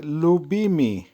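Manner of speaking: লুবিমি as লু-বি-মি; teacher modelling লুবিমি clearly; careful pronunciation demo. Shown as a demonstration. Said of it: "উচ্চারণ হবে". (লুবিমি-র স্পষ্ট উচ্চারণ)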